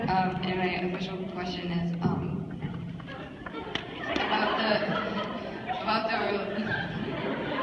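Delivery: husky, hoarse smoky voice; a worn, whiskey-rough rasp. Real, not acted. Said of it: "Your voice sounds really smoky".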